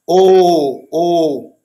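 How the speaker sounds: "o" said closed. Shown as a demonstration. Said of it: "querendo dizer assim".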